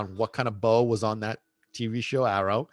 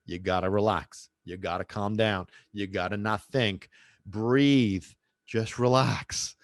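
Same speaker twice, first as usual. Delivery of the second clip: soothing coach; 3 semitones lower, slower than usual. Retold or imitated. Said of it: "same stuff that I always say to my clients".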